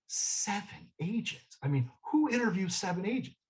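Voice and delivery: incredulous. Retold or imitated. Inner thought, incredulous at seven interviews.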